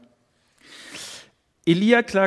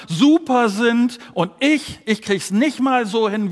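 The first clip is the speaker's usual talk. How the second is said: despairing Elijah; 4 semitones higher, 4 dB louder than usual. Acted. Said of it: "Was Elia hier sagt ist".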